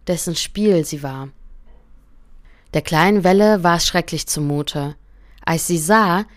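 calm, gentle fairy-tale reading; story narration. A narrator's reading. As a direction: read it like a bedtime story to a listener. Narration between character lines. (ruhige Märchenerzählung)

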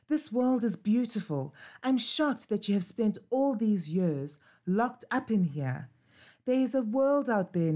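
a restless pup longing to roam; eager puppy Bobo. Acted. Puppy Bobo urges adventure.

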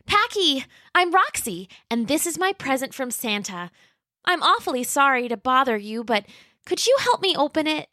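put-on high, sweet little dinosaur girl voice; Roxy the young T-Rex. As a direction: play a polite, eager young T-Rex.

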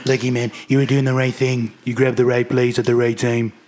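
lightly voiced politician impression; approving praise in an imitated voice; Donald Trump. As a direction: keep up a light presidential impersonation. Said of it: "You sound just like him".

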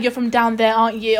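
put-on Newcastle accent. Newcastle man asking if she's from the south, light Newcastle accent. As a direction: quiz her in a Newcastle accent. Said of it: "And he's like".

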